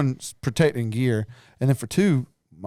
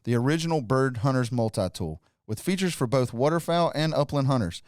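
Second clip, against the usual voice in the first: scripted podcast ad read; sponsor read; 4 dB quieter than usual. Acted. Host reads the sponsor message to listeners, sponsor read.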